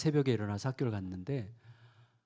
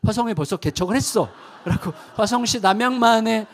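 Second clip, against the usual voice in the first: laughing; 9 semitones higher, 9 dB louder than usual. Real, not acted. Laughs telling story.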